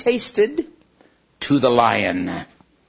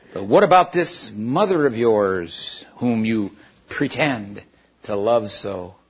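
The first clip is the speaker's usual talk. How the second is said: sneering witch; 2 semitones lower, slower than usual. Acted. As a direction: sneer at the boy's love.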